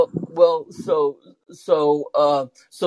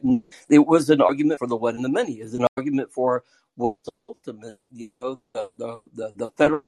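glitchy, cutting-out robotic call audio; choppy robot voice fading to nothing; 2 semitones lower, faster than usual. Real, not acted. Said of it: "You sound like a robot, man".

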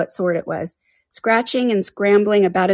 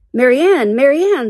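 higher, louder impatient call; high, forceful call; 7 semitones higher, 5 dB louder than usual. A narrator's reading. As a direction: summon the servant from outside. Unseen master calls for his servant.

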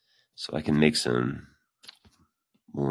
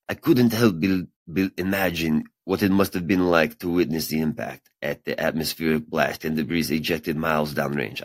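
character voice for quote. Acted. Reading a scientist's quote to viewers, in a mildly put-on character voice. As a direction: read her quote as a playful character, lightly voiced. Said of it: "building these characters".

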